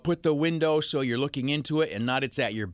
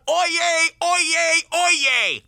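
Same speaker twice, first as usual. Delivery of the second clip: loud, high mock town crier call; town crier shout; 12 semitones higher, 7 dB louder, much slower than usual. Host mocks the old town crier, shouting loud. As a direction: bellow it like a medieval town crier. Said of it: "go out in the middle of the night and shout".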